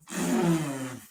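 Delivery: long rush of blown air; imitated bursting whoosh. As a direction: blow it out like pressure escaping. Imitates anger bursting through door.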